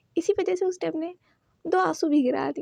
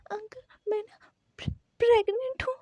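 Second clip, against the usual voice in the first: fake crying confession; 5 semitones higher than usual.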